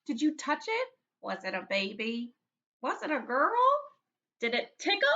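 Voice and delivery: put-on high, eager kid voices; rapid curious kids; eager questions. Kids pepper him with questions.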